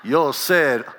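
lightly imitated American accent in Spanish; broken American-accented Spanish. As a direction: mimic an American haltingly attempting broken Spanish. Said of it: "like an American trying to speak Spanish".

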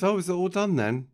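high, loud chirpy put-on voice; comic squeaky enquiry; silly put-on voice. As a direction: ask it in a silly high-pitched voice. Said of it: "Not in that voice".

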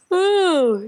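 a stretched yawning oh. Real, not acted. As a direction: let out a yawn. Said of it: "excuse me".

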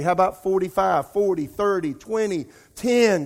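urgent bargaining. Retold or imitated. Abraham bargaining with God.

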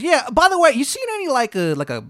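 loud, high, exaggerated Maryland twang; terrible Maryland accent. Baba Yaga greeting a newcomer, bad Maryland accent. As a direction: holler in a hammed-up Maryland accent. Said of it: "Accent's terrible".

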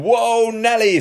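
startled high cry, Whoa Nelly; mock startled yelp; surprised Whoa. Todd finds a dead woman, startled high cry. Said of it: "says Todd".

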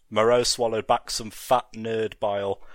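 ordinary delivery

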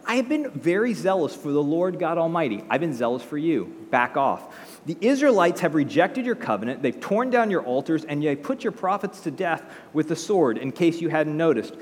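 hammed-up self-pitying protest; pity party. Elijah complaining to God, mock self-pitying. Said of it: "throwing himself a major pity party".

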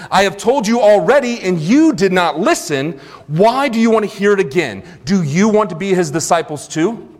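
openly mock them with pointed questions; sarcastic mockery. Healed man answering religious leaders who keep questioning him, sarcastic. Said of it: "responds with sarcasm, my favorite response, openly mocking".

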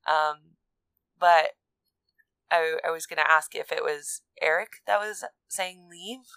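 muffled behind a hand; hand over mouth. Real, not acted. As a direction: speak through your palm. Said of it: "I have my hand over my mouth".

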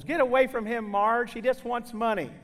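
warning husband. Retold or imitated. Husband warns his wife away.

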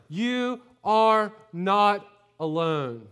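slow, weighty, each word given space; emphatic slow statement. Real, not acted. Pastor telling the congregation to note it, slow and emphatic. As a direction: lay it down for them to write. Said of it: "please note this today, write it down".

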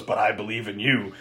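soft, low creepy reply; quiet sinister taunt. Retold or imitated. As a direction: purr it back with a smile. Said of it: "He smiles and goes".

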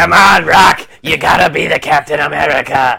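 cheering shout. Pretend. Cheering on the actor.

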